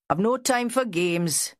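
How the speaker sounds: brisk, no-nonsense snap; curt bark. A narrator's reading. Vera brushing off Jack's self-pity, a curt snap. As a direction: cut him off sharply. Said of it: "Vera barked".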